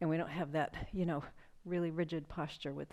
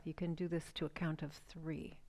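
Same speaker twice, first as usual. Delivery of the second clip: whisper; 2 semitones lower, 6 dB quieter than usual. Acted. Guided breathing, dropping to whisper.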